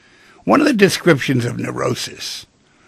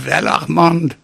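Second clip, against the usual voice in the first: put-on German-French accent; mock German-French accent; 3 semitones higher, slower than usual. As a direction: speak as a German-French psychiatrist, thick V for W. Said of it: "that was a German-French accent".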